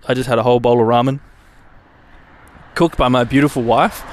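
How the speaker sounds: talking through hiccups; hiccuping between words. Real, not acted. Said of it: "And I got the hiccups".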